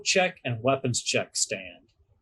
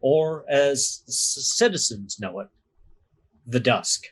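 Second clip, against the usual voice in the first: game master narration. Acted. Game master to players, setting the scene in a measured narrator voice. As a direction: paint the city for the players, unhurried.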